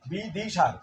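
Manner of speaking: বিদিশার said quickly in one breath. Shown as a demonstration. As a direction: rattle off বিদিশার fast. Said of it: "যত দ্রুত উচ্চারণ করি".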